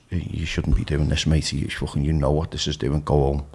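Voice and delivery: steady him and send him home; right inner voice. Retold or imitated. Sober inner voice telling him to go home, low and firm. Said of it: "the other one that goes".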